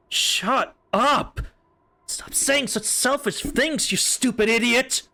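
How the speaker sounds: furious, high-pitched yelling; angry shout. Acted. Shiki yelling at Shion to stop her selfish talk, furious. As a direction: scream it at him in rage.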